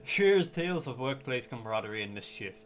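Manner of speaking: hushed wildlife film narrator; nature documentary. Acted.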